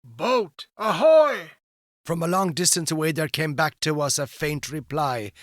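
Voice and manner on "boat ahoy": loud, high sailor's hail. Acted. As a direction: hail a distant boat through cupped hands. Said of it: "raised his hands to his lips and hailed".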